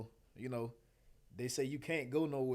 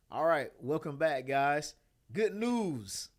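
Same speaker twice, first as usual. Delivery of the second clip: louder, bright announcer read; news anchor voice; 2 semitones higher, 5 dB louder, much slower than usual. Real, not acted. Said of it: "Why do I sound like a news anchor?".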